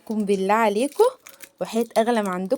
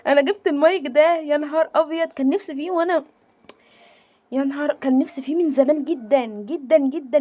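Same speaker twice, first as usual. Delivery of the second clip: excited; 4 semitones higher than usual. Real, not acted. Unboxing the dream mic.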